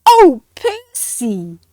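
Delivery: loud, slow, drawn-out disgusted groan; mock disgust. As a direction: recoil from the smell, hammed up. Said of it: "the penguin said".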